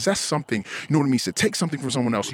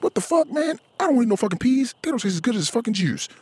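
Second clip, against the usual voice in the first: put-on shrill toddler tantrum; 11 semitones higher than usual. Wife pictured as a toddler refusing peas, squeaky high tantrum.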